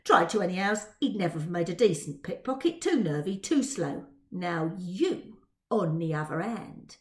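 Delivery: a hint of a cockney urchin; sly street-boy sizing her up; lightly voiced Dodger. Dodger lightly voiced flattering Twill, a touch of cockney.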